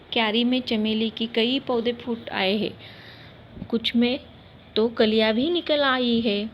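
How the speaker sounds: gentle, tender mother; lovingly. Acted. Mother gently asking her sad son, tender. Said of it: "प्यार से बोली वो".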